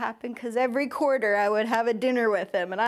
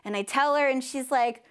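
ordinary delivery

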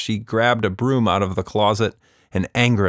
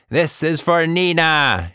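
cry out; 9 semitones higher, 4 dB louder, slower than usual. A narrator's reading. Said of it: "she cried".

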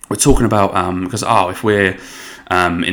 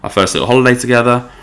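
mildly excited, higher-pitched reenactment; 5 semitones higher, faster than usual. Retold or imitated. Couple reacting to their first holiday together, mildly excited. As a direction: act out a touch of excited wonder. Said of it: "This is exciting".

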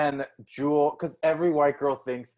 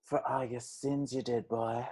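imitating a singer; 2 semitones lower, 9 dB quieter than usual. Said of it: "Like, when she's like".

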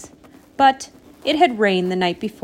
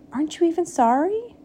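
quick, high, rising question; indignant, pitched-up challenge; hurt disbelief; 8 semitones higher, faster than usual. A narrator's reading. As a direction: ask it fast and high, affronted. Hurt Bird challenges Frog.

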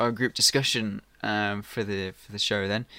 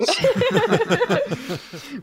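burst of laughter; 7 dB louder than usual. Real, not acted. Laughing at paper idea.

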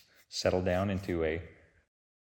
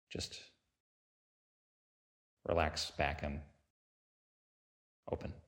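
unhurried meditation guide with long pauses between phrases; guided meditation. Real, not acted. Teacher leading listeners through a body sweep, calm guided-meditation delivery.

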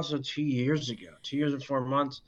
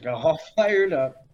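laughing; 4 semitones higher, 9 dB louder than usual. Real, not acted. Teasing co-host's hype.

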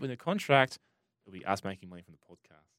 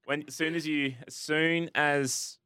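laughing; 4 semitones higher, slower than usual. Real, not acted. Laughing while teasing her.

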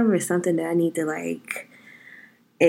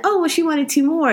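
white person quote; 8 semitones higher than usual. Retold or imitated. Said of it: "if a white person said".

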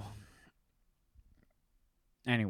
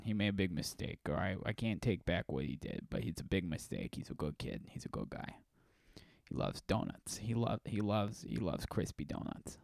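mock grieving dad; 2 semitones lower, 5 dB quieter than usual. Mock grieving parent interview.

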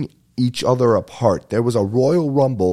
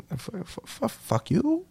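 stammered comeback; 8 dB quieter, slower than usual. Retold or imitated. Retold stammering comeback to insult.

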